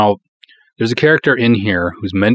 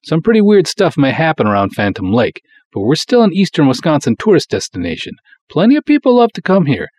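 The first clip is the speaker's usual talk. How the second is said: indignant booster; 8 semitones higher than usual. Acted. Canoe cop defending Phantom Lake to the doctor, heated pitch. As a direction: sell the town, getting more worked up.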